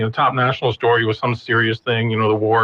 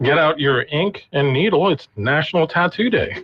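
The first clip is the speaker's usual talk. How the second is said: mock anchor intro; 3 semitones higher than usual. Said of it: "how you can learn".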